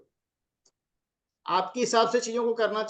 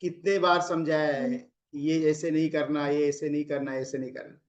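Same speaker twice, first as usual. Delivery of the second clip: husband scolding; 4 semitones lower than usual. Shown as a demonstration. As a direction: drag out the telling-off, then trail away. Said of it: "फिर gents बोलता है".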